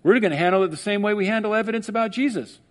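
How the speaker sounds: mocking officials. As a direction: rattle it off like a smug bureaucrat. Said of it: "imagine if we did that".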